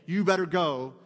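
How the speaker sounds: mock command. Jesus misquoted as ordering disciples, mock stern. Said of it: "It's not a command".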